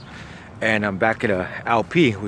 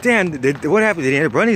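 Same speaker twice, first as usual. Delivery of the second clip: raised, eager disbelief; amazed questioning; 4 semitones higher than usual. Retold or imitated. Narrator asks cellmate what happened, amazed. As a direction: retell it as astonished follow-up questions. Retelling his amazed follow-up.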